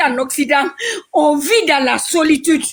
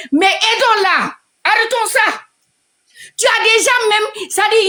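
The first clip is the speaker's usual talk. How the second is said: heated plea; 6 semitones higher than usual. Real, not acted. To the live audience, a raised, insistent plea. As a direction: drag out aidons-la and urge them. Renewed plea to help her.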